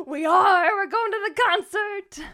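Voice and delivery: loud, high burst of excitement; excited squeal. Real, not acted. Friend reminded of a singer's concert, excited squeal. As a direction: shout it high, thrilled to be going.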